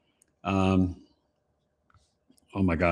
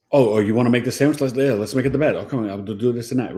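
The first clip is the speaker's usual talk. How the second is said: fast, eager, pushy voice; eager Aries; 3 semitones higher, faster than usual. Acted. Astrologer acting an eager Aries, quick and pushy. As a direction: jump in over someone, quick and keen.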